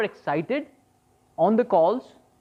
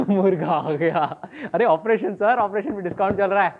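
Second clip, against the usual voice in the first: lightly voiced doctor hawking a discount; pushy doctor pitching surgery, fast at the end; salesy doctor; 2 semitones higher, much faster than usual. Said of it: "Imagine your doctor doing this".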